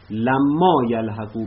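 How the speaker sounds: لما held long and slow, then یلحقوا; slow, with لما pressed; stress on لما. Shown as a demonstration. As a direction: dwell on لما to point at it.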